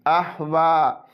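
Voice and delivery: अहवा drawn out, the preceding tanween clear; slow, careful अहवा; अहवा read with an open clean start; clear izhar. Shown as a demonstration. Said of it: "clear यानी जाहिर तौर पर पढ़ेंगे".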